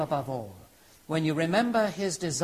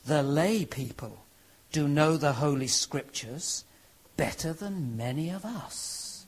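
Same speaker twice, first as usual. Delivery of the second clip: mild grumbling. Acted. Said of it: "Bishop Fox of Hereford was grumbling".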